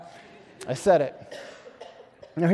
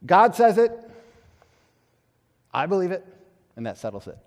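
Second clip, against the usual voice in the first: mocking slogan. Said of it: "a school of thought which said".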